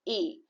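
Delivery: A said as a closed French é; acute E sound. Shown as a demonstration. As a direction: give A the "ay" vowel of é. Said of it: "the sound will be of".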